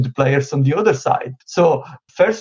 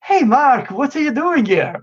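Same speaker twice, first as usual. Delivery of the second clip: pitched high, bright and surprised on hey and doing; surprised high greeting; 9 semitones higher than usual. Shown as a demonstration. Demo to Mark: high surprised greeting. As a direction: sound startled to see him. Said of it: "I can say it with a tone which says".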